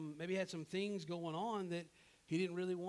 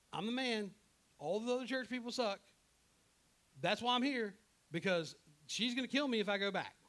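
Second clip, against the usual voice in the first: higher-pitched, hammed-up self-justification; mock self-righteous answer; 5 semitones higher, 3 dB louder than usual. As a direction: defend yourself as the cocky, put-upon prophet. Acted Elijah's flippant self-righteous answer.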